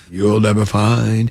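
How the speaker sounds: slow deep crooning singer. Pretend. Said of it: "a singer was hosting the program".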